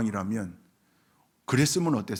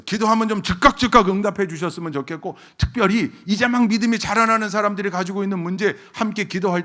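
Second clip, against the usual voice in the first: raised, insistent complaint to God; pleading preaching; 7 semitones higher, 6 dB louder than usual. Real, not acted. Preacher wishing God would answer new believers at once, pleading. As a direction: plead the wish with mounting force.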